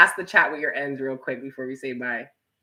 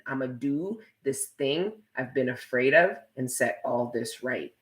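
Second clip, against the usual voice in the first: a hint of mocking in the reread; mock re-reading; 4 dB quieter than usual. Shown as a demonstration. Streamer repeating Jacob's comment to tease him, lightly mocking. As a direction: say his line back the way it landed on you. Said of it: "that's what you sounded like to me".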